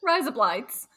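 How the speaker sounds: trying out 'Rise up lights' as Australian 'razor blades'; tentative amateur Australian attempt; Australian accent. Shown as a demonstration. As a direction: copy a mock Australian accent. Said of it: "Now we sound Australian".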